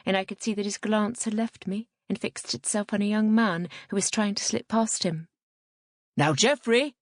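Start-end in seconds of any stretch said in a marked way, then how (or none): 6.2-6.9 raised, louder priest's hail; calling out. A narrator's reading. Priest catching a young man slipping past, calling out. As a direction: call after someone, higher and louder. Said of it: "he called out".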